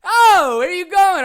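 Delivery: high, loud, sing-song where are you going; mock nosy question. Mocking dad asking where she went, high loud sing-song. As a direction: ham up a clueless cheery question. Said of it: "I'm not gonna go".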